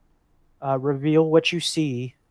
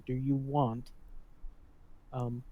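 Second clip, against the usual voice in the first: softly repeated in-character offer; whispering; 6 dB quieter than usual. Acted. Adventurer repeating secret offer to Ulda, whispering. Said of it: "you're whispering this to me".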